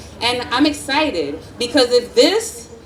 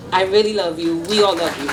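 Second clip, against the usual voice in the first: voice breaking up; 6 semitones lower, faster than usual. Real, not acted. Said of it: "They're making me cry".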